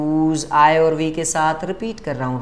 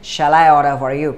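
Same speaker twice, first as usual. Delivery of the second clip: slow correct version; 3 semitones lower, 4 dB louder, much slower than usual. Shown as a demonstration. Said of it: "नहीं होना चाहिए".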